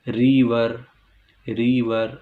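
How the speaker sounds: रिवर in two measured beats, री-वर; two syllables. Shown as a demonstration. Teacher showing one hurdle in रिवर, two clear beats. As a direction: stretch रिवर so both syllables show. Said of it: "आपकी ज़ुबान एक रुकावट का सामना करती है".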